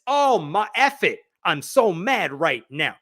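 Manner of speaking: hammed-up frustrated outburst; mock angry tone. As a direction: act out a kid mad at the world. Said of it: "strike a tone that says".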